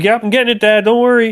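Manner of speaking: a hint of a busy son calling up; hurried boy. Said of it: "grabs, like".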